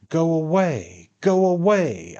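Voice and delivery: loud, high, desperate cry; desperate command. A narrator's reading. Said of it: "I commanded in desperation".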